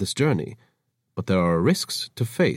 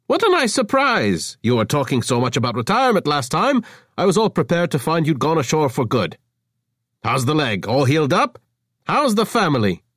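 gushing chatter; 7 semitones higher, 4 dB louder than usual. Acted. Avra gushing at Markefa.

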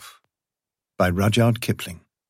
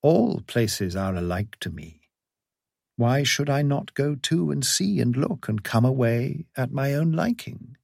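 musing to himself, aloof; sly, curious cat musing; snooty bored cat; 3 semitones higher than usual. Acted. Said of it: "the cat said to himself".

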